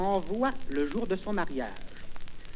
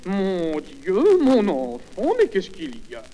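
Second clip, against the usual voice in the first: mock-alarmed mother, slightly raised voice; mère affolée; 4 dB louder than usual. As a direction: play a mother lightly panicking for her child. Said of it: "Sa mère arrive". (mère faussement affolée)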